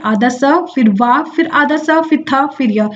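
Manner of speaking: slowly listing the letters of स्वास्थ्य: आधा स, वा, आधा स, थ, य; slow teacher-style letter-by-letter spelling. Shown as a demonstration. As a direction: dictate each piece deliberately. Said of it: "स्वास्थ्य कैसे लिखते हैं".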